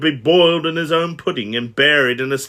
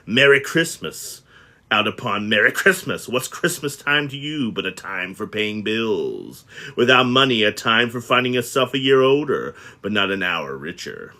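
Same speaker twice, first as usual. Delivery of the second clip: mild miser's rant. Acted. Scrooge ranting at nephew.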